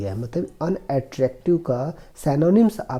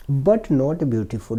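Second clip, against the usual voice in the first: slow, careful reading of the English passage; slow reading aloud; much slower than usual. Shown as a demonstration. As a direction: read each word slowly for the class. Teacher reads story slowly. (धीमी आवाज़ में अंग्रेज़ी पढ़ना)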